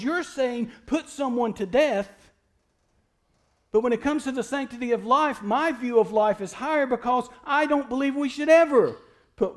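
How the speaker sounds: mock objector. Voicing opponents of death penalty.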